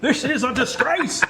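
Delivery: slow, high-pitched mock Southern outrage; Southern lawyer. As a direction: draw it out like a scandalized lawyer from the South. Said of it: "like a lawyer from the South".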